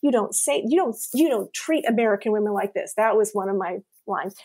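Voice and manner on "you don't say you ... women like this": raised, scolding tone at a rude date; firm scolding, building indignation; indignant telling-off. Retold or imitated. Retelling scolding a rude date at dinner, indignant. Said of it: "I'm loud enough that the other people".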